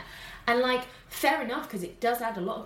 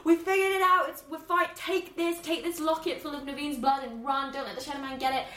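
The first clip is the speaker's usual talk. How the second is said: higher, hurried urgent voice; urgent Ray; 5 semitones higher than usual. Retold or imitated. Ray rushing to Tiana with the locket, urgent higher voice. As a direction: rush the instructions like Ray. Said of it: "he's like".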